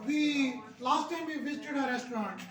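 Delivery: slow, careful restaurant sentence; slow model sentence. Shown as a demonstration. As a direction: read it slowly for the class. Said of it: "ऐसे कहना आपने". (धीमा नमूना वाक्य)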